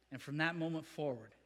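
ordinary delivery

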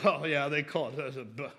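low, quiet mock of a smug skeptic. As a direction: lightly sneer it out as the know-it-all critic. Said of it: "don't let them ridicule you".

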